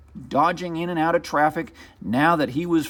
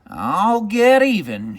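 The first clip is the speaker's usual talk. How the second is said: muttered threat; 6 semitones higher, 4 dB louder, slower than usual. Acted. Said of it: "she muttered".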